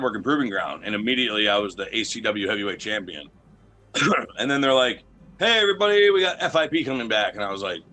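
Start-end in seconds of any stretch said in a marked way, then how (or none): 5.4-7.3 a lightly voiced promoter calling out, pitched up; announcing call-out. Retelling how the promoters hyped the roster, in a light call-out. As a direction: hype the room like a promoter shouting news.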